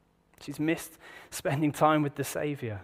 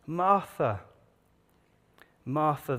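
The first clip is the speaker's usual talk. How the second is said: gentle rebuke; slower than usual. Retold or imitated. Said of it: "I think it's gently".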